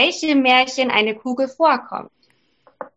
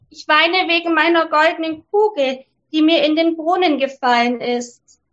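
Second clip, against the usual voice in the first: lightly higher princess, a touch of lament; 4 semitones higher than usual. Acted. Princess tells the frog her woe, lightly higher. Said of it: "sagte sie".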